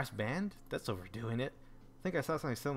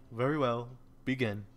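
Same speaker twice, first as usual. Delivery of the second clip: commanding noble; 3 dB louder than usual. Acted. Sakuya commanding the band.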